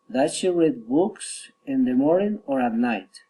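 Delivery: up on "morning", down on "night"; rising then falling. Shown as a demonstration. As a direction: lift "morning", then let "night" fall. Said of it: "rising and falling intonation".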